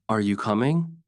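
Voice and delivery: "Are you coming?" rising at the end; rising question tune. Shown as a demonstration. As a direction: lift the voice on "coming". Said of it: "The voice rises at the end".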